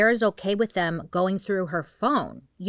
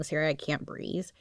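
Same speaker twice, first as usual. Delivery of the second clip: softer, fading weak plea; weaker call; 2 semitones lower, 6 dB quieter than usual. Retold or imitated. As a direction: barely get the words out. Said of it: "his calls were a little bit weaker".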